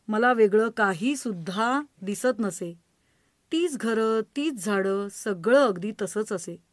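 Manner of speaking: poem recitation. Acted. Reciting a poem about grandfather, tender verse recital. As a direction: recite with the fog refrain fading away.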